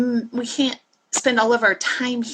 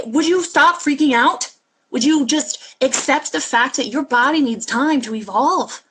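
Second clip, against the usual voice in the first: exasperated plea; 3 semitones higher, 3 dB louder than usual. Retold or imitated. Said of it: "take you all by the head and say".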